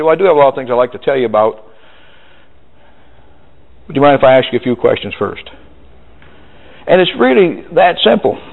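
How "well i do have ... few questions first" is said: smooth polite pitch. Shown as a demonstration. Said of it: "change this deal right there and say".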